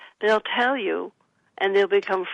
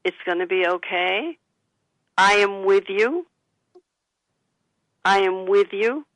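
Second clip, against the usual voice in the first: calm reassurance. Shown as a demonstration. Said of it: "Take a deep breath".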